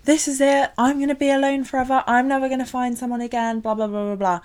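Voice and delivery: dramatic despair. Retold or imitated. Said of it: "I've been like".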